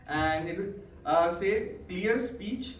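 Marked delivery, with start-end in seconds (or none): 1.9-2.8 pen between teeth. Shown as a demonstration. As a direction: Clear speech creates confident speakers said around a pen in the teeth. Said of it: "put it between your teeth".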